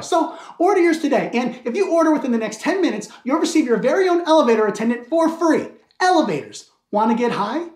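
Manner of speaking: lively TV sales pitch; mock infomercial. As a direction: sell it like an over-keen ad presenter.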